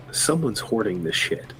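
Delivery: hushed, voiced stage whisper, pitch falling; pretend whisper. Player whispers to companions so David won't hear, hushed. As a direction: say it softly, as if keeping it secret. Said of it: "I'm gonna whisper".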